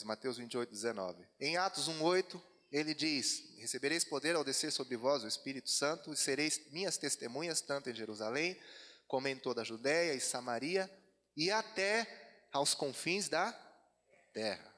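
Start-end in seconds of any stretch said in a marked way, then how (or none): 3.6-14.7 loud, emphatic verse quoting; scripture recitation. Acted. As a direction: declaim the verse to the congregation. Recites a Bible verse aloud.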